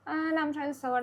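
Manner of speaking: mock uninterested refusal; feigned indifference. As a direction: imitate a girl playing it cool. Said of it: "هتعمل نفسها إن هي مش مهتمة".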